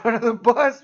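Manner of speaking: ordinary talk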